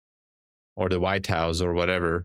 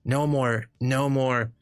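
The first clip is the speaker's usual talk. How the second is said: higher, boastful Trump voice rambling about beautiful boats; hammed-up Trump bragging, pitched up; streamer's comedy sketch as Trump, higher and boastful; Trump impersonation; 4 semitones higher than usual. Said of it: "I did a great Trump, Trump impersonation".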